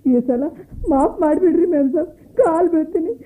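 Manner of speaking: crying. Acted. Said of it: "ಅಳ್ಬೇಡವ, ಅಳ್ಬೇಡ".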